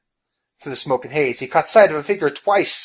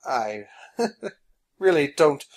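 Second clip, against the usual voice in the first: halting, with awkward little laughs; nervous apology; 4 dB louder than usual. Acted. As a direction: stammer an apology to placate a giant. Phineas nervously apologises to giant.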